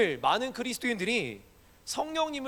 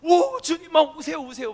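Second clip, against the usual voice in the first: loud, high imploring cry to the Lord; mock an overheated prayer, calling God to come; hammed-up fervent prayer, loud and high; fervent pleading prayer; 7 semitones higher, 8 dB louder than usual. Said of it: "막 이렇게 막".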